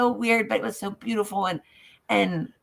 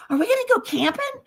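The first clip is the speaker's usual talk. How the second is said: put-on little girl voice; faster than usual. Voicing herself as little girl.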